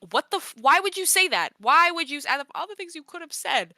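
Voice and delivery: incredulous outrage. Real, not acted. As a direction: demand an answer in disbelief. Ranting at what he said.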